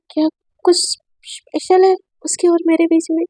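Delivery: breathy private whisper to herself; hushed voiceless musing; whispered inner thought. Acted. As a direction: whisper it like a secret doubt. Sara's inner doubts, whispered.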